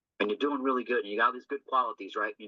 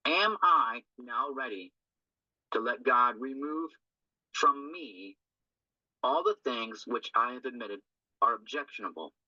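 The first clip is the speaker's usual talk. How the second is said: slow deliberate reading; 2 semitones lower than usual. Shown as a demonstration. Sponsor reads step question to group, slow and deliberate. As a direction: read each phrase slowly, with pauses between.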